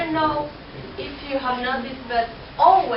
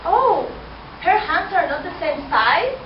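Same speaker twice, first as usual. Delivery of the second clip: higher, louder astonished oh; surprised; 4 semitones higher, 3 dB louder than usual. Acted. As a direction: gasp at the silly idea. Suitor's astonished reply.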